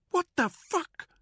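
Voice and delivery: high, loud disbelief; shocked. Acted. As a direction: blurt it in disbelief. Danny finding champagne.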